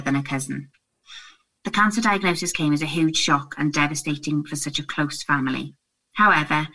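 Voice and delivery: steady, even tribute reading. Acted. Presenter reading Emma's message about her late friend, measured reading. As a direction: read the letter out in measured phrases.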